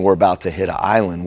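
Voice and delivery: loud, fast alarmed warning; a lookout shouting the bad news; urgent alarm. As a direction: blurt out the danger in a hurry. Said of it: "instead of saying".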